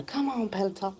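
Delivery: lightly voiced mock encouragement; a hint of a cheering instructor; pretend Peloton coach. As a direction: playfully urge on the rider. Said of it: "go up to him and go".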